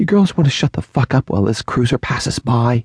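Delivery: high, hushed whisper under the breath. A woman cuts through two men's laughter as a police cruiser passes: whispered. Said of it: "She whispers".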